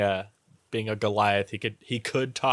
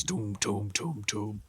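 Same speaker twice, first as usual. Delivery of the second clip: imitated heavy footsteps; 6 dB quieter, slower than usual. Shown as a demonstration. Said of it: "you can feel him coming over".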